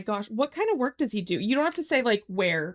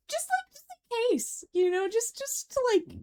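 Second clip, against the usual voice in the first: laughing; 12 semitones higher than usual. Real, not acted. Laughing at own spider worry.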